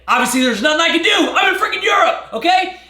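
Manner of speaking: high, loud, fast exasperated yell; a retold shout of pure exasperation; frustrated outburst. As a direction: blow up in disbelief at a nagging message. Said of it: "'cause I'm like".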